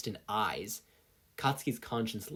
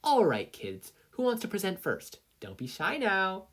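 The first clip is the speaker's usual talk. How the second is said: teasing; 9 semitones higher than usual. Acted. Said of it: "she said with a wink".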